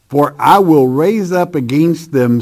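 emphatic "I" near the front; stress on I. Shown as a demonstration. Preacher reading God's vow from the verse, emphatic on "I". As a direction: lean firmly on the word "I". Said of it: "That's emphatic".

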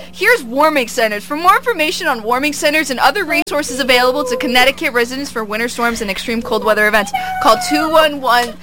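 measured public-service announcement; radio PSA delivery; PSA read. Acted. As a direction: read it like an official notice. Reads a PSA on air.

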